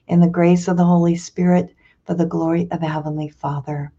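steady, recited devotional prayer. Acted. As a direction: lead the congregation in the offering. Leads the morning offering prayer.

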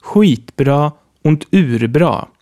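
skitbra und urbra said slowly, each word clear; slow, clear example. Shown as a demonstration. Teacher reads example words slowly for learners. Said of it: "so bekommen wir zum Beispiel".

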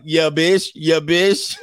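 lightly voiced scoffing mom; a hint of the sarcastic mother; mock mom scoffing. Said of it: "Mom is like".

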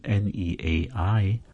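"neai" with each vowel separate, ne-a-i. Shown as a demonstration. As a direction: split every vowel, no diphthong.

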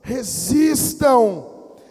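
very slow, loud RESISTAM; forceful exhortation. Real, not acted. Preacher urging believers to resist, loud drawn-out cry. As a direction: belt out RESISTAM, stretching each syllable. Same word repeated, escalating.

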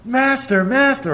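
high, loud panicked cry; frantic high shout for the master; desperate yelling. Acted. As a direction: yell for help over the storm. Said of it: "They're all yelling".

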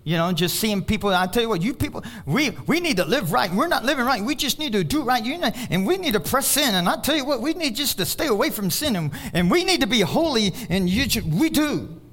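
lightly mimicked exhorting preacher; preacher's scolding. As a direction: imitate a preacher urging holiness, pitch swinging. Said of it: "everybody would go".

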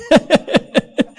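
a quick high chuckle; short laugh. Real, not acted. Preacher laughing at his own burrito joke, quick chuckle.

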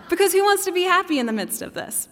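lively aside. Real, not acted. Preacher's aside, excited.

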